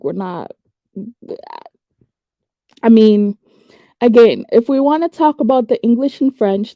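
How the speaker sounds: normal talking voice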